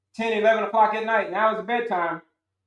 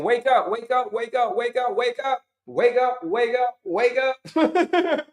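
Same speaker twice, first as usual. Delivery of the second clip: higher, insistent wake up chant; body calling; 4 semitones higher, slower than usual. Retold or imitated. The body alarming its owner, higher, insistent. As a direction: urge yourself awake over and over. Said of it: "your body saying".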